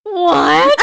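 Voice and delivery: high, loud shocked cry; shocked what. Retold or imitated. Retelling her shock at the husband's plan, high loud cry. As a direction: gasp it out in disbelief. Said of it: "And I was like".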